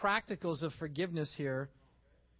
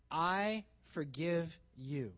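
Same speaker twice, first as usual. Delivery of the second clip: earnest; 3 semitones lower, much slower than usual. Shown as a demonstration. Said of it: "it is very important to say".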